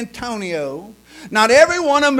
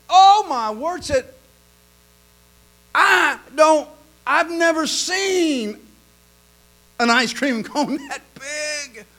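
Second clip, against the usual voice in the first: higher, louder, slow marvelling; amazed customer; 6 semitones higher, 3 dB louder, slower than usual. Retold or imitated. Customer to waitress, slow amazed exclamation. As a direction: gasp at the giant cone.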